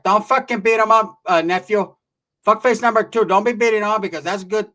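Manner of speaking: loud, high acted aunt yelling; scolding aunt. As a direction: yell at them to lay off, as the tia. Aunt yelling to stop fight.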